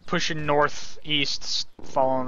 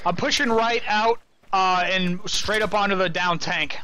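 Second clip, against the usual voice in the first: higher, raised voice under fire; combat callout; 4 semitones higher than usual. Real, not acted. Calling movement in firefight.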